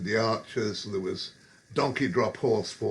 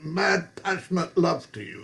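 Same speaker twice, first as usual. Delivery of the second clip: put-on higher, louder drunken call across the bar; mock bellow; 6 semitones higher, 4 dB louder than usual. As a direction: bellow a hammed-up come-on.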